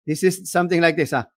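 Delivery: airy, breath-heavy demo; breathy voice. Shown as a demonstration. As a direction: let air leak through every word. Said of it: "One, breathy voice".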